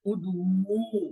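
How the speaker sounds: ادعو with a very long final oo; drawn-out waw. Shown as a demonstration. Teacher reciting the plural command in a table, ending of ادعو held long. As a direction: slowly stretch the last vowel of ادعو. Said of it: "واو والے کو تھوڑا سا کھینچ لے جاتے ہیں".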